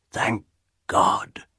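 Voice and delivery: hushed, breath-like thanks; relieved. A narrator's reading. Husband thanks God nothing happened, hushed relief. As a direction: let it out as a soft sigh of relief.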